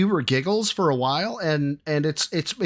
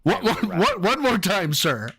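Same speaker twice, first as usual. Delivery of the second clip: lightly acted disbelief, pitched higher; mock baffled questioner; 4 semitones higher than usual. Examiner asking sir to repeat, mock bafflement. Questioner asks Biden once more.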